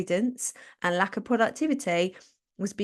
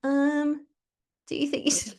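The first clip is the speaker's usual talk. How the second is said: sly whispered doubt; creeping little voice whispering a warning; lurking whisper; 6 semitones higher than usual. Pretend. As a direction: whisper it like a lurker in the throat. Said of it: "He lurks ... going".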